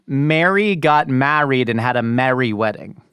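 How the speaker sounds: a light imitated New Jersey accent, Mary and merry kept apart; a slow, careful New Jersey mother-in-law voice. Host imitating his New Jersey mother-in-law's accent. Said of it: "is from New Jersey originally, and she would say".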